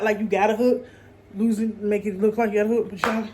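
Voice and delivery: winded, gasping between words; out of breath. Real, not acted. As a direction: talk while short of breath. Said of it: "girl, I'm out of breath".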